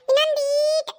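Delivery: ಈಟು stretched long; drawn-out coaxing. Acted. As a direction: coax slowly, dragging out the vowel of ಈಟು. Child urging elder to step farther.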